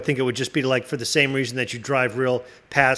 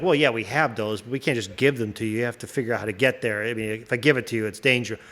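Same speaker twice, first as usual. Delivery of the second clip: lower, patronizing alien voice; condescending alien; 5 semitones lower, 3 dB quieter, faster than usual. Pretend. Alien refusing humans their fuel, patronizing. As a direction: explain it down to humans, lightly. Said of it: "they'd be like".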